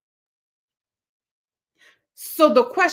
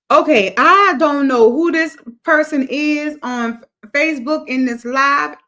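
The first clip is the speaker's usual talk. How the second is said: alarmed loud; 3 semitones higher, 5 dB louder than usual. Real, not acted. Host spots an impersonator on Facebook.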